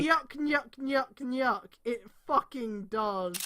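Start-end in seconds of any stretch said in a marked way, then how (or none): 0.0-1.6 Three Stooges laugh. Retold or imitated. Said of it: "does it actually say nyeh nyeh".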